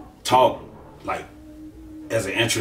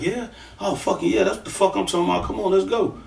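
eager hype; 7 semitones higher, 3 dB quieter than usual. Retold or imitated. Opponent eager to fight.

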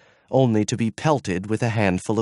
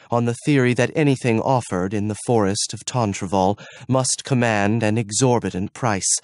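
ordinary delivery, nothing marked

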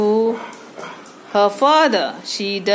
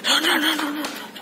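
laughing; 3 semitones higher, 4 dB quieter, faster than usual. Real, not acted. Laughing as pet runs off.

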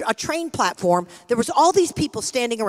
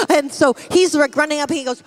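ordinary talk, nothing marked

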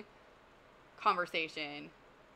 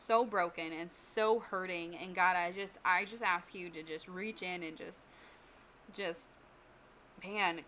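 prayer. Acted. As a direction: pray sincerely over the group. Leads a closing prayer.

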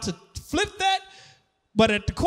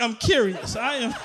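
normal talking voice

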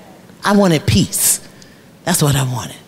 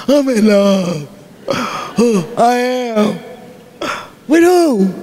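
surprised; 3 semitones higher, slower than usual. Retold or imitated. Inner dialogue, surprised at herself.

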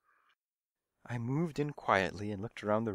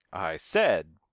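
put-on raised voice to a deaf old lady; loudly; 4 semitones lower, 7 dB louder than usual. A narrator's reading. Young cat repeats loudly to a deaf old woman, louder. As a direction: say it up so she hears. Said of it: "I said loudly".

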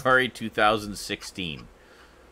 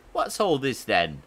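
mock British bobby. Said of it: "similar to Brinsley's accent".

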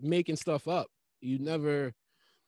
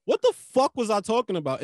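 mock bewilderment; 5 semitones higher, 6 dB louder than usual. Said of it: "and then I'm like".

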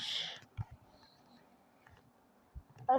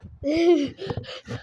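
startled laugh; 3 semitones higher than usual. Real, not acted. Laughs after sudden mishap. (tiz, şaşkın kahkaha)

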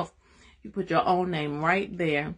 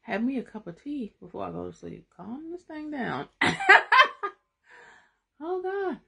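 much higher, laughing, still wound up; worked up; 10 semitones higher than usual. Real, not acted. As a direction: try to calm down but can't. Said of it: "I done got myself all worked up".

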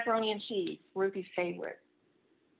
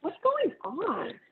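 concerned teacher; 10 semitones higher, slower than usual. Acted. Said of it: "asked Missus Olson".

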